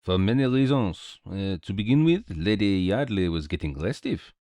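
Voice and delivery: put-on lightly accented sleuth; patient French-tinged explanation; Belgian detective, explaining. Detective gives his reasons to his friend, lightly accented.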